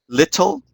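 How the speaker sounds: little with the T softened to a D; flapped t in little. Shown as a demonstration. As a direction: say little as "liddle", voice lifting. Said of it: "you pronounce the D instead of a T".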